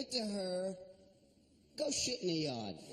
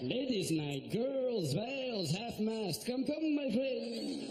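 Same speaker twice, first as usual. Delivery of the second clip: put-on Pakistani accent; slower than usual. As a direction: beckon like a sleazy club owner. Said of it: "I look like a Pakistani nightclub owner".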